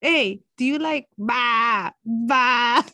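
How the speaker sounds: slow bleating "ba, ba"; lamb bleat imitation. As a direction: bleat it like a lamb, half laughing. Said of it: "She goes the same way as I did".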